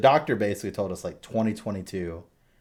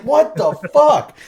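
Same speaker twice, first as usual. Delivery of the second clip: slow, loud, much higher what the fuck; shocked outcry; 13 dB louder, slower than usual. Retold or imitated. Dad reliving his shock at the baby's punch, stunned. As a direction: drag it out in stunned disbelief.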